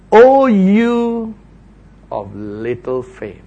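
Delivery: gentle reproach. Acted. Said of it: "Verse thirty-one".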